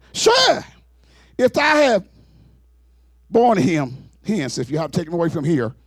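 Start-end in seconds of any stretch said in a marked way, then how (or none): 0.0-4.8 Mary pleading. Acted. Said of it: "Said unto him".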